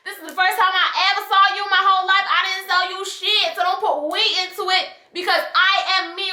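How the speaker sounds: rapid-fire defensive retort; straight-up denial. Retold or imitated. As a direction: set her straight, fast and firm. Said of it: "I told her straight up".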